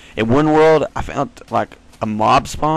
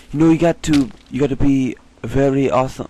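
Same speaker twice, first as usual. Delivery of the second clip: lightly voiced TV hero impression; half-hearted imitation, slightly raised voice; Andrew Lincoln; 3 semitones higher than usual. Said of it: "Andrew Lincoln on The Walking Dead".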